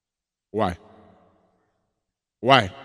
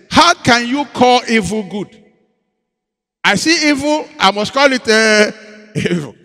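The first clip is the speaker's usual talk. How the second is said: loud, high, slow outraged cry; indignant protest; 6 semitones higher, 8 dB louder, slower than usual. Retold or imitated. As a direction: protest righteously at full volume. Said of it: "I said".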